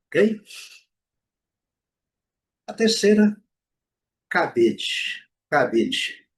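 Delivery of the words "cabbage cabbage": "cabide" said as English cabbage, ending "idge"; first syllable of "cabide" strong, short i after it. Shown as a demonstration. Teacher modelling the third word, "cabide" said as "CAB-idge". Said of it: "o A com som de I".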